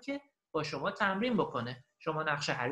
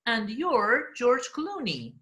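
very slow, raised teaching voice; listen-and-repeat model; 7 semitones higher, 3 dB louder, much slower than usual. Shown as a demonstration. Teacher repeats the recording for learners, slow model. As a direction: space the words out for learners. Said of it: "and repeat و قرار شما تکرار کنید".

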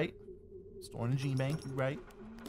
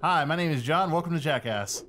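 Jackass intro voice; 3 semitones higher, 4 dB louder than usual. Pretend.

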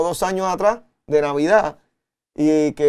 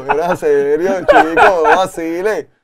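laughing retold plea; 4 dB louder, slower than usual. Retells trying to be taken seriously.

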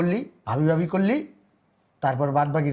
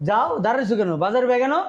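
raised, loud, higher impatient command; snapping at his wife, louder and higher; angry order; 8 semitones higher, 4 dB louder than usual. Acted. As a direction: bark at her to fetch the bag. Husband orders wife for bag.

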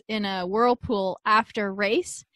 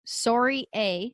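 Canadian accent; slower than usual. Shown as a demonstration. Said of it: "in a Canadian accent".

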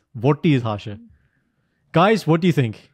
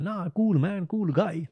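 mock casual voice; 6 semitones higher, slower than usual. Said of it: "and you think is like".

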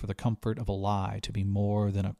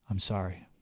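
quiet sorry; 5 dB quieter than usual. A narrator's reading. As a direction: say it gently and heavily. Pilot softly apologizes.

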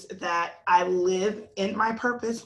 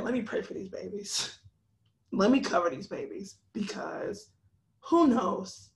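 gentle prayerful. Retold or imitated. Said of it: "I had to get out of my flesh".

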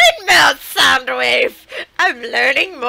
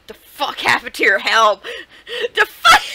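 laughing disbelief; 2 semitones lower than usual. Real, not acted. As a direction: crack up mid-question. Same line twice, laughing second.

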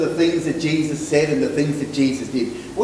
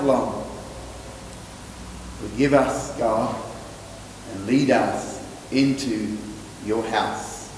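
spoken prayer. Real, not acted. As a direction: pray it, slowing and softening towards Amen. Leads the closing prayer.

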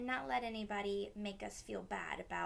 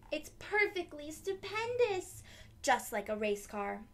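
delighted; 4 semitones higher, 4 dB louder than usual. Acted. Girl delighted.

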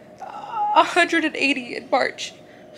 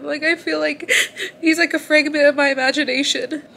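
laughing through tears; 4 dB louder than usual. Real, not acted. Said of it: "I'm trying not to cry".

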